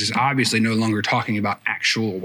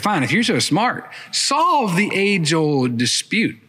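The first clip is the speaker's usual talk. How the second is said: a higher, slowed, goading dare; baiting challenge; 4 semitones higher, slower than usual. Retold or imitated. Samaritan woman daring Jesus to settle the dispute, goading. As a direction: throw down a challenge to the clever man. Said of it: "She's baiting him".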